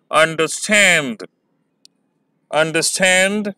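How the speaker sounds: अंडरस्टैंड with the weight on स्टैंड; अंडरस्टैंड with a falling stress on स्टैंड; stress on the last syllable. Shown as a demonstration. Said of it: "थोड़ा सा जोर ज़्यादा लगता है".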